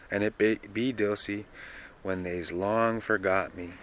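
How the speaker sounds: a hint of Dilsey speaking from experience; Dilsey's wisdom. Reads Dilsey on names.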